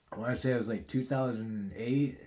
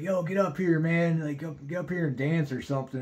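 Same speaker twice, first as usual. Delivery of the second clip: calling out; 5 semitones higher than usual. Retold or imitated. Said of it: "this dude's like".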